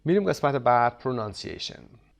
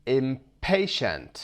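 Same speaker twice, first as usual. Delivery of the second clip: Impatient said slowly with the middle syllable pa stressed; slow im-PA-tient, leaning on pa; Impatient drawn out, stress on pa; much slower than usual. Shown as a demonstration. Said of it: "underline the stressed syllable".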